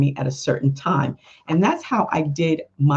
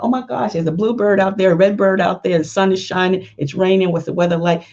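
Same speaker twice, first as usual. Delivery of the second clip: excited rambling; 4 semitones higher than usual. Pretend. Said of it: "I'm like".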